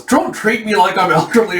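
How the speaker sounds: high-pitched mock outrage; indignant scolding. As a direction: scold him for the insult. Woman snaps before punching Hawk.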